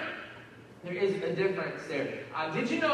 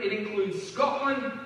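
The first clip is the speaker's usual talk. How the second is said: "Scotland" said slowly as "Scoot-land" in a mock Scottish accent; slower than usual. Shown as a demonstration. Pastor playfully saying Scotland to the congregation, mock Scottish accent. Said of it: "I just like to say it like that".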